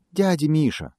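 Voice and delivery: squeaky hare. A narrator's reading. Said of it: "пискнул заяц". (заяц пискляво зовёт медведя)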